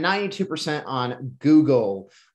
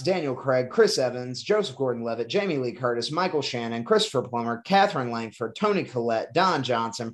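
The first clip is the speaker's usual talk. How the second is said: all in one breath. Shown as a demonstration. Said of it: "I'm gonna try to do all these in one breath".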